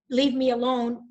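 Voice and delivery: a real echo of her scream; retold scream. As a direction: cry it out to make him go away. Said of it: "when I'm screaming".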